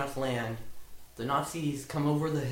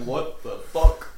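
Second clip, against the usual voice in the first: stunned laughing outburst; 2 semitones higher, 9 dB louder, slower than usual. Retold or imitated. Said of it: "they're all standing around like".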